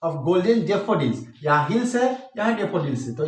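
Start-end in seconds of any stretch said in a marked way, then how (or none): 0.1-1.2 very slow reading; slow poetry reading; slow recitation. Shown as a demonstration. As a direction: let the rhyme ring out. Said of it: "यहाँ देखिए".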